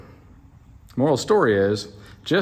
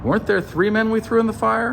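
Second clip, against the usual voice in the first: high-pitched baffled question; mock puzzlement; 11 semitones higher than usual. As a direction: ask it way up high, play-acting disbelief. Puzzled onlooker in retold story.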